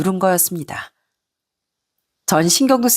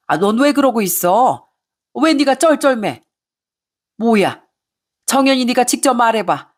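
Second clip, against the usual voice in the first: angry mother-in-law; 2 semitones higher than usual. Acted. Mother-in-law berating son and daughter-in-law, mildly shrill. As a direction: scold them like an affronted elder.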